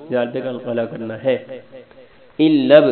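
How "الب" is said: الب with a loud bouncing ba; qalqala on ba. Shown as a demonstration. Teacher demonstrates qalqala on ba, loud and bouncing. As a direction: snap the ba of الب with an echoing bounce. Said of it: "با پہ کل کرنا ہے".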